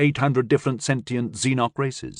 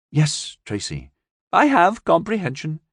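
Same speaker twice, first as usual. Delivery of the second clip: lightly voiced alien; 6 semitones higher than usual. Alien answers.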